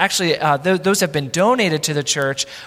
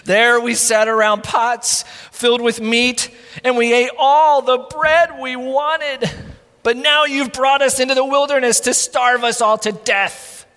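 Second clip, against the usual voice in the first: whiny complaint; 3 semitones higher than usual. Acted. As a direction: whine about the good food lost. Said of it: "they moaned".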